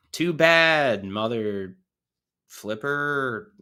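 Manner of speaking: lightly voiced British cartoon villain; a hint of cartoon British, winding up loud; Stewie Griffin. Streamer mock-scolding sinners, hint of Stewie voice. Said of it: "really winding up. Family Guy Stewie".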